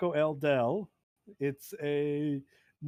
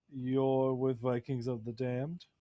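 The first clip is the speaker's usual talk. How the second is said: slow, flat robotic monotone. Acted. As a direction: speak like a machine with no inflection. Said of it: "uh, monotone, uh, robotic voice".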